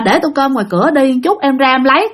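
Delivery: easy, flowing answer in an everyday voice. Retold or imitated. Bảy as he normally answers his older brothers, polite. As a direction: answer an elder politely and smoothly. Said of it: "bình thường đi là ổng sẽ trả lời".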